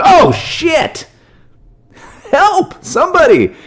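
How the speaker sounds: a cartoon fish crying for help; panicked fish. Sturgeon caught by a lasso, mock panic.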